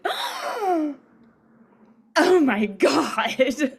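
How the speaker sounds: high, squealing Oh my God, rising loud; excited gasp. Retold or imitated. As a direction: gush like you just got the script.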